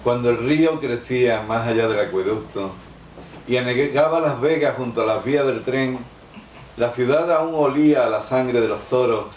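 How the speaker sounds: poetry recital. Acted. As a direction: recite it line by line, pausing after each verse. Recita su poema. (recitado de poema, solemne y pausado)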